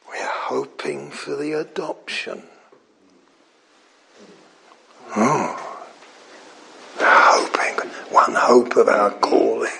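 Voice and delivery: hushed awed whisper; whispered hope. Real, not acted. Preacher whispering about hope.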